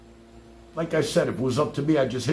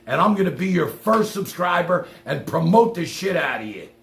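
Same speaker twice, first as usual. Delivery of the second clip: sarcastic taunt; 3 semitones higher than usual. Real, not acted.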